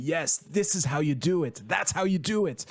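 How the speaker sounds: recalled excitement, pitch climbing on the repeat; mild retold cheer. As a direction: cheer it on, lightly re-enacted. Retells own reaction while watching scene.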